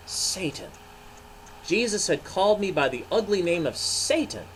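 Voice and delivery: Peter telling his story. Acted. Pastor voicing Peter to children, ashamed and earnest.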